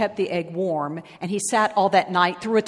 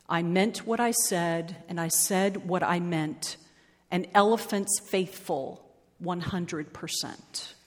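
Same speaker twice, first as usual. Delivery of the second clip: softer, subdued vow; lonely resolve; 6 dB quieter than usual. Acted. Lonely Horton repeats his vow, quiet and subdued. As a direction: say it quietly, holding to the promise.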